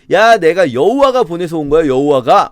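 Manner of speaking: mocking. Enemy general claims God sent him, mockingly. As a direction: make the divine claim sound like a jeer. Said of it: "막 조롱하듯이".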